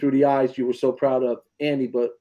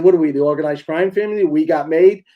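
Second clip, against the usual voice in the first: mock indignant; 3 semitones higher, 7 dB louder than usual. Mock outrage retold.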